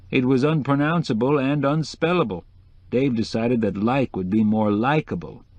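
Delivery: lightly voiced decorator explaining with flair; a hint of the showy decorator; chatty decorator. Decorator explains rival's name.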